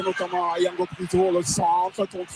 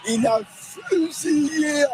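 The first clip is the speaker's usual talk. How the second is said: excited commentary; 6 semitones higher than usual. Real, not acted. Co-commentator excited about goal.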